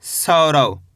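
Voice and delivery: सौरव as one whole word, low and falling; model pronunciation. Shown as a demonstration. Teacher shows learners how to read it, सौरव low and joined. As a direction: join सौ and रव, dropping the pitch. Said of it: "कैसे पढ़ेंगे?".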